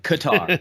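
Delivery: "Qatar" said kuh-TAR, like guitar; "Qatar" rhyming with guitar; guitar-like pronunciation. Shown as a demonstration. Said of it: "should sound somewhat like guitar".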